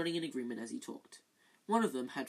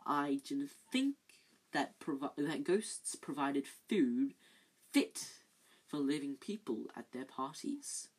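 silky Snape; slower than usual. Acted. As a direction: purr it from the shadows. Snape mocking slowly.

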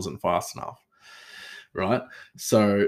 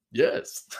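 meek Skinner. Retold or imitated. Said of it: "And Skinner's like".

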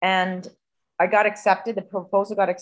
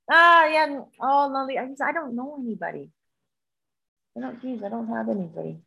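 higher, hesitant brush-off that trails into softness; evasive boyfriend; 5 semitones higher than usual. Retold or imitated. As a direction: imitate him squirming out of helping. Voices boyfriend dodging her request.

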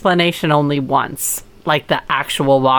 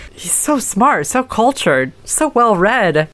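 sarcastic; 4 semitones higher than usual. Acted. Mocking the colonel.

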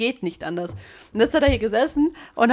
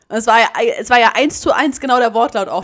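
laughing while talking; 3 semitones higher, 8 dB louder than usual. Real, not acted.

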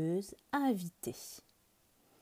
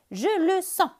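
confident bird; 11 semitones higher, 7 dB louder than usual. Acted. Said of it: "dit Oiseau".

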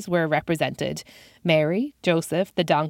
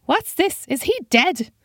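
put-on high, squeaky-pitched old man voice; 10 semitones higher than usual. Old man hobbling over to the body, high-pitched voice. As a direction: play a wild-eyed old man, very high. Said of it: "wild-eyed with a high-pitched voice".

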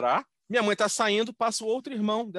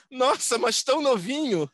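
mock surprise; 6 semitones higher, 3 dB louder, slower than usual. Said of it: "Minha mãe".

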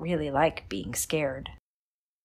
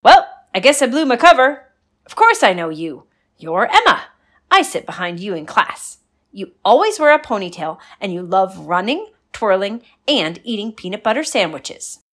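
put-on bright loud chatty girl; friendly and a bit sheepish; cheerful girl voice; 3 semitones higher, 9 dB louder than usual. Ghost girl unmasks herself.

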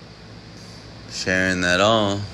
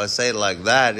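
quicker put-on accent, falling on THAT; another fake accent; faster than usual. Shown as a demonstration. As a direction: toss off "that" fast in a fake accent, dropping at the end. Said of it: "It's all fake accents".

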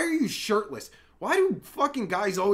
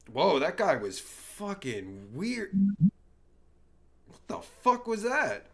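ordinary talk

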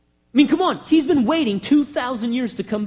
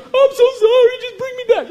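pleading Israel; 13 semitones higher, 6 dB louder than usual. Retold or imitated. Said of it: "they cry".

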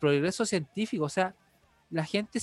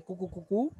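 soft imitated villain chuckle; a light evil "cu cu cu" laugh; 4 dB quieter than usual. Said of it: "esa típica risa malvada de".

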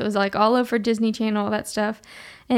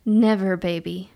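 amused mom; 2 semitones lower, slower than usual. Retold or imitated. Mom's amused answer.

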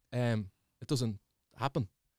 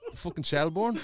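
incredulous laugh. Real, not acted. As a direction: shout it out, laughing in disbelief. Incredulous at friend's memory.

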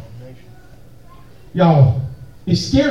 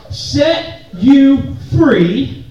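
drawn-out; much slower than usual. Acted. Call and response with congregation.

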